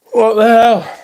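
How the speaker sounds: sudden high, loud disbelief; surprised. Real, not acted. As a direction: blurt it out, baffled. Startled by own yawning.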